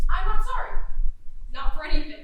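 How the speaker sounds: loud, unapologetic declaration; defiant outburst. Acted. Goddess defying her father, loud and defiant. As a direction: throw it in their faces, defiant.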